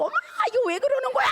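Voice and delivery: high, fast panicked cry; frightened child. Retold or imitated. Scared daughter crying out to her mother, high and fast. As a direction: squeal it out like a scared kid.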